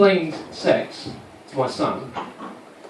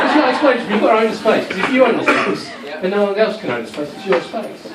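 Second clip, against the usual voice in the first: quoting Joe; 7 semitones higher than usual. Retold or imitated. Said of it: "So Joe says".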